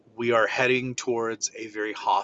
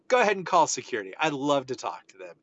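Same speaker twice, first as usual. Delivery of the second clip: taunting dare; 2 semitones higher, faster than usual. Retold or imitated. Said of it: "So I go".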